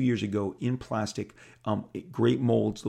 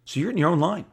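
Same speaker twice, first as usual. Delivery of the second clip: louder, higher news delivery; Bob Harris voice; 4 semitones higher, 4 dB louder than usual. Retold or imitated. Editor breaking the news, louder and higher. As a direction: announce it with a lift. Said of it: "And he said".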